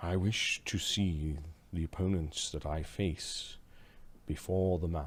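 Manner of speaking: very quiet, hushed, low voice. Narrator voicing a character who greets the opponent he will face: very quiet voice. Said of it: "he says in a very quiet voice".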